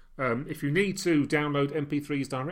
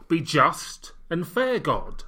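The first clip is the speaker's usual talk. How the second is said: grandiose king; much slower than usual. Pretend. Pompous self-crowning as king.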